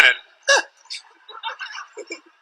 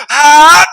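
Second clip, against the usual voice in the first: mock sneeze gasp; 10 semitones higher, 8 dB louder than usual. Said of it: "you're like".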